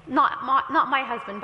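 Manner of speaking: chuckling through the words; laughing. Real, not acted. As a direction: laugh while saying it. Laughing aside.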